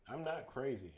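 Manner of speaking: sudden loud protest; shouting. Acted. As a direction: blurt it out as a shout. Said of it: "I shouted suddenly".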